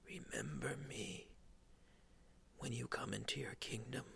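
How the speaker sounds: pained, strained whispered plea; groaning plea. Acted. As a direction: groan it out through the pain. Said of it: "one of the criminals groans".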